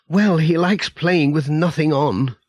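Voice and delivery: Mrs Pottage. Acted.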